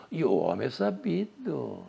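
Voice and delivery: softly, as if confiding to a friend; hushed confiding aside; quiet aside. Shown as a demonstration. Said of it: "e eu cochicho com um amigo".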